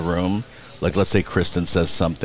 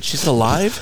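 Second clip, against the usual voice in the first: higher-pitched retold disbelief; incredulous; 6 semitones higher, slower than usual. Retelling his reaction to the press agent, incredulous. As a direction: ask it as if she were back from the dead.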